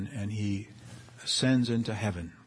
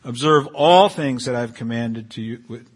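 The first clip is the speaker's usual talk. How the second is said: "all" leaned on, spoken louder; stress on all; 6 dB louder than usual. Shown as a demonstration. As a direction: hit the word all. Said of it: "I want to emphasize the word all and always".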